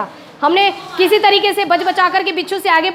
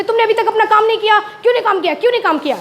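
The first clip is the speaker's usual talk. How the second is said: mock scolding; 3 semitones higher, much faster than usual. Teacher acting out scolding the pupil Ayush, quick mock scold. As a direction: rattle off the mock rebuke fast. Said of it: "मैंने इसको डांटने लगी कि".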